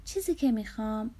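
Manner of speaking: halting, unsure start; hesitant. Acted. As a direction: begin the wish, then falter with slight doubt. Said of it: "با کمی تردید گفت". (با کمی تردید و مکث)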